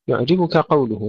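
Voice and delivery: يعجبك قوله with ك and ق kept distinct; separated kaf, qaf. Shown as a demonstration. Teacher modelling for students, distinct letters in يعجبك قوله. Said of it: "نفصل الكاف عن القاف".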